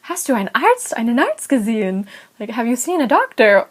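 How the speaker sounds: imitated alarmed questioning; urgently ask, as a mildly acted worried pharmacist; retold alarm, voice lifted; freaked out. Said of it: "she freaked out when she saw my knee".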